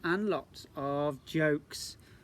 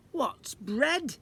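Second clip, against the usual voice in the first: put-on high, louder little-girl voice; child voice; 11 semitones higher, 7 dB louder than usual. Jennifer asks from under the table, high childish voice. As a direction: pipe up like a child.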